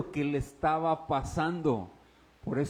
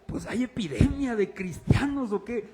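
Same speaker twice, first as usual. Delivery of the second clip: lightly raised sarcastic quip; mock complaint; 4 semitones higher, 3 dB louder than usual. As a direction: tease about all the Christians. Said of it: "yo les decía". (queja burlona, ligeramente más aguda)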